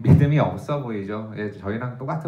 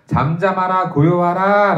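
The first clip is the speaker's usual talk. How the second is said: commanding rebuke; 5 semitones higher, 6 dB louder, slower than usual. Shown as a demonstration. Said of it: "라고 말씀하시잖아".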